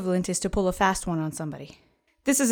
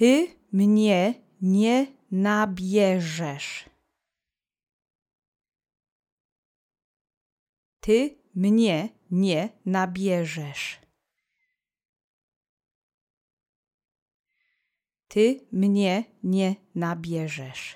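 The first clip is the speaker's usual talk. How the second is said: slow, deliberate, clear, careful Polish pronunciation. In a language lesson, the speaker models a phrase for listeners to repeat, slowly and carefully. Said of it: "Repeat after me slowly three times".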